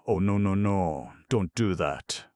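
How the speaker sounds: high, loud pleading; frightened ox begging the girl not to break the jug; terrified begging. Acted. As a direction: beg them not to do it. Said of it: "begged Nox".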